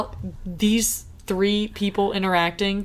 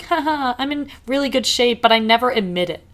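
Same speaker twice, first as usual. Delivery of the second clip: peppy gym mom; 5 semitones higher than usual. Retold or imitated. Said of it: "mom that goes to the gym".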